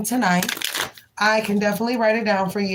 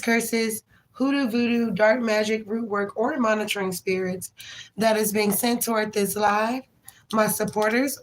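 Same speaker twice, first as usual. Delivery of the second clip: steady, earnest prayer voice, listing each name. Acted. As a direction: pray it like a blessing over the stream. Prays over the live stream.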